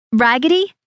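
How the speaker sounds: rising, disbelieving echo of raggedy; the bridesmaid repeats the insult in rising disbelief; offended echo. A narrator's reading. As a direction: toss back raggedy as a shocked question. Echoing the insult.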